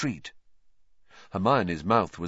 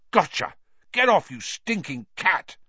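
higher-pitched exclamation; excited scuffle; 7 semitones higher than usual. Acted. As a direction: call out while grabbing at something. Ron grabbing, yelling at cat.

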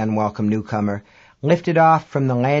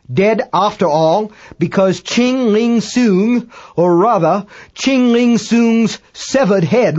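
Dagbolt in horror; 6 semitones higher, 5 dB louder than usual. A narrator's reading. British astronomer sees severed head float past, high horrified voice. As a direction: report the horror loudly, correcting as you go.

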